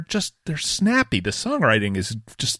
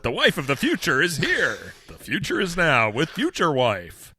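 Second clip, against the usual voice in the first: announcer voice; 5 semitones higher than usual. Pretend. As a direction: pitch it like a ride at Epcot. Mock Epcot attraction announcement.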